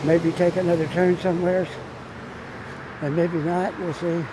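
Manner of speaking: muffled by a face mask; speaking through a mask. Real, not acted. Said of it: "talking through my mask 'cause it kinda muffles my voice".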